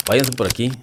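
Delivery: a retold urgent shout of directions; commanding call. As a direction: call out the escape route to the troops. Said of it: "así con ese tono".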